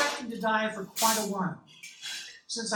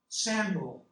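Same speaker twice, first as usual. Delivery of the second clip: smooth, mellow voice of God; lightly voiced God, mellow tenor; mellifluous tenor. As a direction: let the name flow out rich and smooth. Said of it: "in a mellifluous tenor voice".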